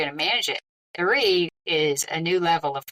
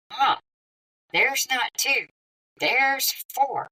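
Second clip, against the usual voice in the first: higher, urgent panicked voice; 7 semitones higher, much slower than usual. Retold or imitated. Telling mom on the phone, panicked and higher.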